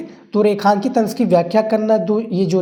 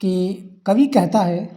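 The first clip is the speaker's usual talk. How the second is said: slow dictation; much slower than usual. Shown as a demonstration. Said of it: "लिखेंगे".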